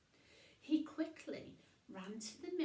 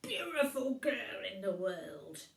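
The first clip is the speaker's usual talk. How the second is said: happy grunt; 6 dB louder than usual. Acted. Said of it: "he grunted happily".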